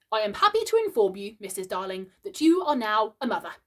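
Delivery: a hint of a solemn father announcing; boy playing at being father; pompous father. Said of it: "in just such a tone as Mister Darling himself".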